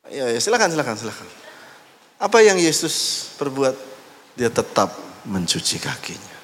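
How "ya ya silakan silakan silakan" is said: lordly permission. Acted.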